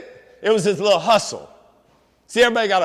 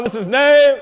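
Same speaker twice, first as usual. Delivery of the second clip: louder call with passion; rallying call; 2 semitones higher, 4 dB louder than usual. Shown as a demonstration. Speaker leading students in a call-and-response, loud and passionate. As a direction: fire up the crowd for the answer. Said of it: "You gotta say it with some passion".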